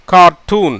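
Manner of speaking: கார்ட்டூன் said as car-toon with a long oo; model pronunciation. Shown as a demonstration. Teacher shows how கார்ட்டூன் sounds, clear model word. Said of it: "எப்படி வருது?".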